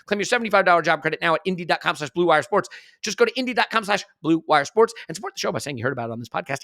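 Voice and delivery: upbeat sponsor read, quick and bright. Acted. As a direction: sell it like a radio spot. Reading a sponsor ad.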